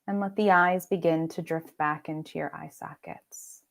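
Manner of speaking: unhurried meditation voice with long pauses; guided meditation. Acted. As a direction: lead them gently into rest, pausing between phrases. Leads guided meditation practice.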